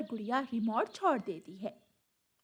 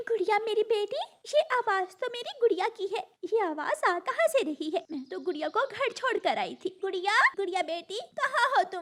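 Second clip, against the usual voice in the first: raised, higher-pitched mother voice; worried calling; 8 semitones higher than usual. Acted. Mother searching for her crying daughter, worried calling. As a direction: call out anxiously for a lost child.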